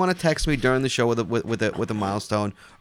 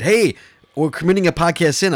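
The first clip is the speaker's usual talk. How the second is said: imitating callers; 6 semitones higher, 7 dB louder than usual. Retold callers, voiced louder.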